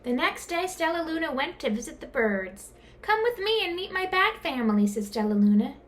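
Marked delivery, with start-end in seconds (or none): 3.0-4.9 higher, eager voice; high, keen invitation. A narrator's reading. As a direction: invite friends excitedly. Stellaluna invites birds.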